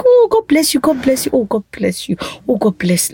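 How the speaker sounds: grateful blessing, opening high then softening; retold happy gratitude. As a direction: repeat it like a happy little chant. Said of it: "I'm just happy".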